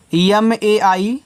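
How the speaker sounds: slow, deliberate letter-by-letter spelling; letters spelled out slowly. Shown as a demonstration. Teacher spelling an English word for children, slowly. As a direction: spell each letter apart for the class. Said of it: "teacher spells word letter by letter".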